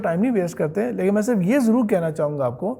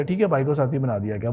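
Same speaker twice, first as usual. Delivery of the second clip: quick, offhand acceptance, lower; mock casual reader shrugging it off; careless reader; 4 semitones lower, 3 dB quieter, faster than usual. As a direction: rattle it off without a second thought. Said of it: "آپ کا پڑھنا ایسے ہوتا ہے کہ آپ نے پڑھ لیا".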